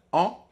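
en par le nez; son isolé. Shown as a demonstration. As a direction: voyelle nasale en. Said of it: "en utilisant le nez". (en bien nasal)

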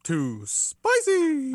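high, loud, very drawn-out mimicry; mock echoed yell. Co-host echoing a wrestler's camera yell, mock yell.

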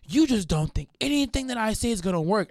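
high, mocking imitation of his protest; whiny complaint. Imitating the man arguing back, whiny. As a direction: whine it as his exasperated complaint.

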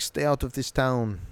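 lightly imitated Sokovian accent; a hint of a made-up Sokovian accent; mock Sokovian accent. Wanda warning the guards off, in mock Sokovian accent. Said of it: "Sokovian accent sounds like".

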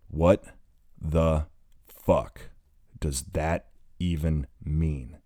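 each word pushed out slowly, catching breath between them. Acted. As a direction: struggle for air as you drag the question out. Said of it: "he asks slowly, between breaths".

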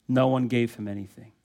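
"No one" stressed, quiet and heavy; emphatic no one. Shown as a demonstration. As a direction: lean into "No one" as the point of the line. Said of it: "It's an emphatic statement".

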